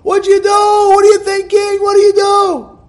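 high, loud furious yelling; father screaming. Retold or imitated. Father screaming at his daughter over a broken glass, loud furious yell. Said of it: "The father starts screaming at her".

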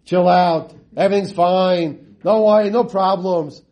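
imitating carefree reassurance; lightly put-on chilled-out slogans; mock laid-back. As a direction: parody an easygoing crowd waving worries away. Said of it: "everybody's like".

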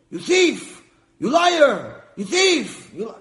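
furious shouting at a thief, slow and loud at first; enraged stingy husband bellowing; yelling. Acted. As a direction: scream the accusations at yourself in the mirror. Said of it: "yelling and screaming".

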